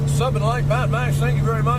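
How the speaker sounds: talking with a mouthful; words round a bite of food; mouth full. Real, not acted. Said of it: "Got my mouth full".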